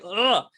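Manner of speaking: high, exasperated "ugh"; exasperated groan. Retold or imitated. Acts out exasperated reaction.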